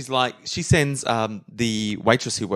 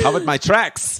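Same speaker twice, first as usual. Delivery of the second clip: German posing as British; 5 semitones higher than usual. Acted. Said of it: "starts saying something in a German accent".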